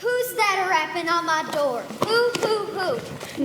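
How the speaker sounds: lightly voiced old woman, rising into a call; a suspicious old woman calling through the door; a hint of a nosy old lady.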